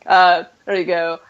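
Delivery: usual speaking voice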